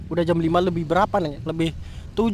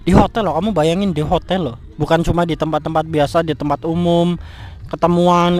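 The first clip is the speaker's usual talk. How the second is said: louder, outraged; loud angry rant; 3 dB louder than usual. Acted. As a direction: hammer the hotel betrayal. Memarahi pacar soal hotel. (membentak pacar soal hotel dengan keras)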